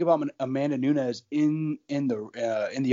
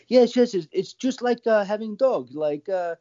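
high, thick mock Russian accent with dropped articles; Amanda Nunes in a terrible Russian accent; 6 semitones higher than usual. Podcaster voicing a fighter on raising her baby, in a thick, bad Russian accent. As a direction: ham up a bad Russian accent, pitched well up. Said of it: "that terrible accent you just did".

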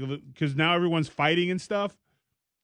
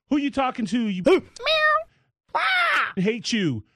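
higher, imitating a reality-TV fight; mock angry tirade; 10 semitones higher than usual. A reality-TV lady insulting her rival, hammed-up anger. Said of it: "called her every name in the book".

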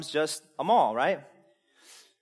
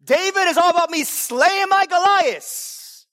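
loud, high mock boast; satirical self-centred believer; 10 semitones higher, 6 dB louder than usual. Preacher mocking self-centred Bible reading, loud mock boast. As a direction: puff up like a self-absorbed hero. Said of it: "Feel the satire there".

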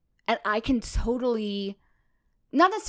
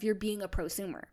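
hushed unvoiced aside; whispering; 6 dB quieter, faster than usual. Real, not acted. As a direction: whisper it to the listeners. Aside to listeners about prosumers.

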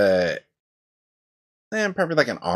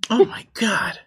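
whispered; 7 semitones higher than usual. Real, not acted. Dice roll goes badly.

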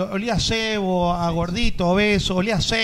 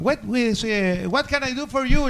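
Walt Disney lightly voiced, speaking English with a Spanish accent; English phrase; 3 semitones higher than usual. Walt Disney speaking English to the printer, mild Spanish accent. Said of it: "Bien su inglés".

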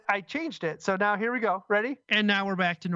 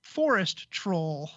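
forest troll voice; much slower than usual. Shown as a demonstration. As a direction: voice filtered into a troll. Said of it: "now I sound like a forest troll".

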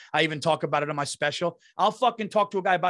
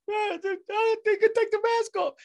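high, goofy yinzer voice pitched way up; dopey Pittsburgh bro; 14 semitones higher than usual. Retold or imitated. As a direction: play him as a clueless local buddy. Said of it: "Bartnick's like".

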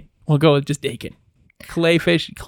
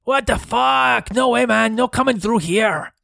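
stoner crayfish guard; 6 semitones higher than usual. Acted. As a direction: shrug off the intruders. Crayfish guardian refuses them.

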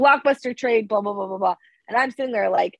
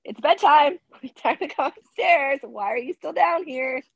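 a lightly voiced bossy cat, a bit higher; 5 semitones higher than usual. Cat at the top of the stairs calling her owner, lightly voiced and bossy. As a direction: playfully scold like a pushy pet. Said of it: "she'll be like".

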